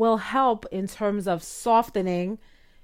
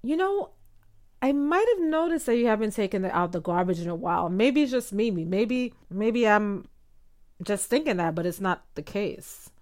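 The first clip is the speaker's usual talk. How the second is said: exaggerated hesitant uptalk; 3 dB quieter than usual. Shown as a demonstration. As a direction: overdo the tentative wife, tripping over maybes. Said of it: "It comes across as".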